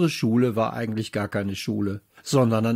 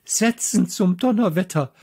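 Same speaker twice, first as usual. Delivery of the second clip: roaring teacher; 7 semitones higher than usual. A narrator's reading. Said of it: "brüllte unsere Klassenlehrerin".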